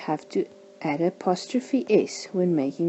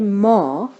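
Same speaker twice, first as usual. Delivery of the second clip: "ma" with a strong, louder A; emphasis on the A; 3 semitones higher, 6 dB louder than usual. Shown as a demonstration. Teacher shows learners where the vowel is stressed, emphasis on the A. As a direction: lean hard on the A in "ma". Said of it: "the emphasis is on the A".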